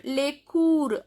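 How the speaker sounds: "cours" ending on r; "Les" as "lay", "cours" as "koor"; silent final S. Shown as a demonstration. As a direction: say "Les cours" without either S. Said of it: "S is not pronounced".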